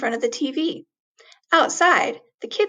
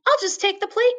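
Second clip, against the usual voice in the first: high greedy squeal; greedy glee; 7 semitones higher, faster than usual. Acted. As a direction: grab the whole plate. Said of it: "Mouse thought".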